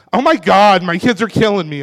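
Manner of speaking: hammed-up frazzled parent sigh; mock exasperated parent. Shown as a demonstration. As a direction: fake a weary parent's groan. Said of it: "And I don't mean like".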